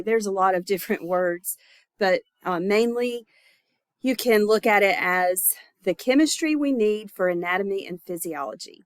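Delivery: blocked nose from covid; stuffy, congested voice. Real, not acted. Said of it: "I know I sound stuffy".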